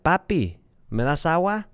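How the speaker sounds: hint of a pleading toddler; little child's request. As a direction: raise the pitch a little, a kid asking Dad for water. Voicing his little son asking.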